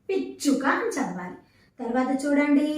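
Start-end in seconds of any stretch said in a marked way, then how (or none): 0.1-0.6 పిచ్చుక with చ్చ firmly held; pressed double చ. Shown as a demonstration. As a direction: double the చ of పిచ్చుక with a short catch. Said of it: "ఒత్తు ఉంది కాబట్టి మనం".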